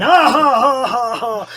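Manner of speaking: loud, high acted belly laugh; big fake ha-ha, falling as it goes; mock guffaw. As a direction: imitate the Marine busting up laughing. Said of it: "starts busting up laughing".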